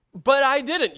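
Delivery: put-on high, loud indignant teen protest. Teen answering the scolding parent, indignant and loud. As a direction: whine it like a wrongly accused kid.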